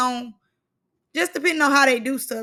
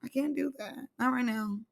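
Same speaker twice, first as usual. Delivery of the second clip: soft refusal; 8 dB quieter than usual. Retold or imitated. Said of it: "Let me say".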